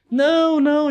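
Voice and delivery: high, loud bratty no; toddler refusing. Retold or imitated. Dad imitating toddler refusing everything, high whiny no. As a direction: whine no like a cranky baby girl.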